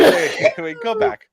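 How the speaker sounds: high, frantic yell to stop; urgent shouting. Real, not acted. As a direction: shout it, desperate to rewind. Frantic request to replay clip.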